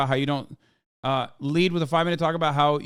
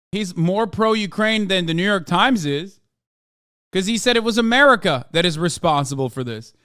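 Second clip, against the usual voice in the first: heated rant; 3 semitones higher, 6 dB louder than usual. Real, not acted. Heated defense of the reporter.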